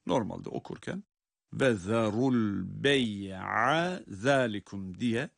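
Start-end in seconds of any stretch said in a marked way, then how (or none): 1.5-5.0 "bey'a" voweled and run on into "zalikum"; read without stopping. Shown as a demonstration. Teacher showing the reading without a stop, "bey'a" voweled. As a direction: slowly join "ve zarul bey'a zalikum" without a pause. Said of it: "eğer durmayıp geçersek".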